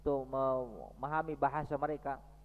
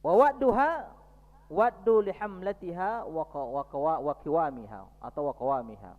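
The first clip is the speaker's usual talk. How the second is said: membaca teks Arab; 7 dB louder than usual. Acted. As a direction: declaim the Arabic text with weight. (membaca teks Arab dengan lantang dan lambat)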